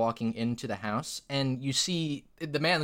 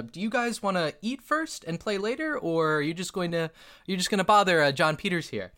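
put-on man addressing kids; 5 semitones higher than usual. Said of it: "he kind of speaks to the kids now".

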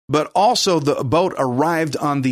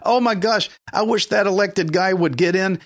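fretful worrier; 3 semitones higher than usual. Retold or imitated. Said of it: "You're just concentrating on the problem".

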